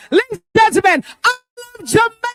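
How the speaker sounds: high, hyped MC introduction; big build-up to the singer; stage announcer. Acted.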